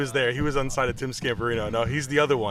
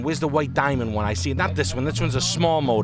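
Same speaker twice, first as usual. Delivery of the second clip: imitating a haggling customer; 3 semitones higher than usual. Salesman mimics a pushy customer haggling over an S-Class. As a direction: lean in and lowball like a pushy buyer. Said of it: "That's how he talks".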